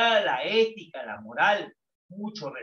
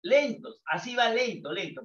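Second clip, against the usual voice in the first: acting out slow; 3 semitones higher than usual. Shown as a demonstration. Teacher shows how slow feelings are, drawn out. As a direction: say lentos, así va lento, lento stretching then dropping off. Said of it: "Los sentimientos son lentos".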